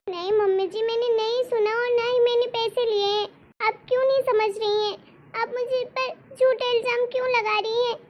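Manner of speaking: daughter-in-law protesting to her mother-in-law, distressed; pleading protest. Acted. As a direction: protest the false charge, near tears. Daughter-in-law protests false accusation.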